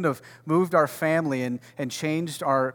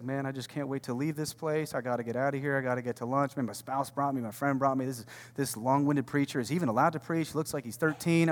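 softer, lightly voiced grumbling congregant; mock bored listener; 7 dB quieter than usual. Voicing a reluctant churchgoer, mild mock grumble. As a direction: mutter like someone dying to leave. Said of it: "you're just like".

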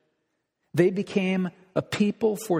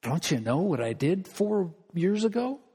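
pleading sinner; 3 semitones higher than usual. Pretend. A believer asking God how he can still love him, rising plea. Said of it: "It'd be like you say".

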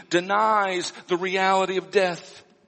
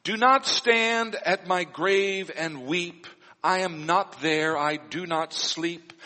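poem reading. Acted. Pastor reads funeral poem aloud.

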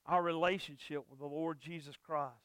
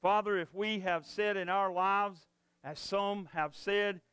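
closing prayer. Acted. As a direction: pray for the congregation, unhurried. Pastor leads closing prayer.

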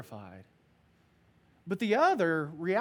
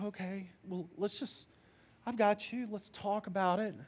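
softer, hushed reassurance; soothing dad; 3 semitones higher, 3 dB quieter than usual. Retold or imitated. Father reassuring his scared daughter, soft and calm. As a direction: settle the child down quietly. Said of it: "you comfort her".

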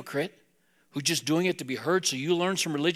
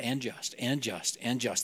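lower, softer repeated filler; mock rote prayer; 5 semitones lower, 6 dB quieter, slower than usual. Preacher imitating men praying by habit, mock rote. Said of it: "they're not talking anymore".

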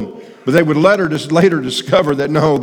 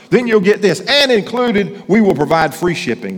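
home shopping host. Retold or imitated. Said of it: "those commercials you see on T V".

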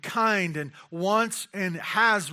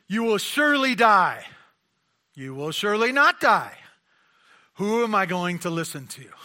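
exasperated confused outcry; 3 semitones higher, 8 dB louder than usual. Pretend. Voices Eve's confusion between voices.

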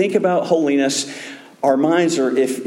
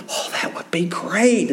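airy, mildly eager reply; retold enthusiasm; 4 semitones higher than usual. Nuns eagerly answer Harry's offer, mock enthusiastic. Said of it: "enthusiastically they said".

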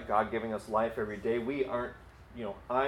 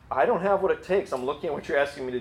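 higher, louder objection, as Moses; mock protest; 3 semitones higher, 3 dB louder, faster than usual. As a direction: push back with insistence. Acts out Moses protesting to God.

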